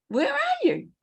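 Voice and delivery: mock calling out.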